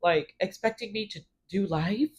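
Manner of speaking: high, wounded protest, imitated; mock a self-pitying complainer in a high-pitched voice; whiny Jer act. Recapper mimicking Jer feeling wronged, high and put-upon. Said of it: "Jer being Jer, it's like".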